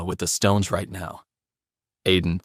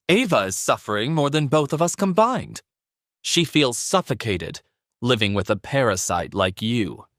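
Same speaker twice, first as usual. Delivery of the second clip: huffing; 3 semitones higher than usual. Acted. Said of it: "Sandra huffed".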